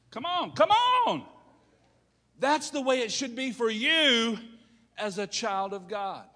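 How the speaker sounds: loud, high preacher's shout; urging the congregation. Real, not acted. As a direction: call out to rouse the church.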